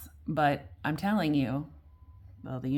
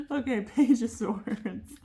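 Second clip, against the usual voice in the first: laughing; 8 semitones higher, slower than usual. Real, not acted. Laughs after joking about breath.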